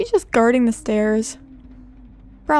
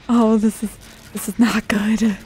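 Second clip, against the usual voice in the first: whispering. Real, not acted. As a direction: breathe it out, barely voiced. Hiding from the killer.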